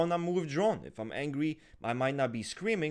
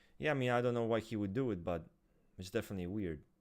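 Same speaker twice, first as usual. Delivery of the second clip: low, utterly flat, unemotional deadpan monotone; 4 semitones lower, 5 dB quieter than usual. Showing how it sounds when coming across as unemotional: completely flat delivery. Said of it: "I will just talk like this. I'll show you".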